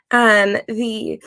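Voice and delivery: holding back a hiccup; suppressing hiccups. Real, not acted. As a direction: talk through a hiccup.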